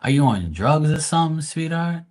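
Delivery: exasperated mock sympathy, rising up; mocking concern. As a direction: tease her like a nurse asking if she's okay. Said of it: "And I'm like".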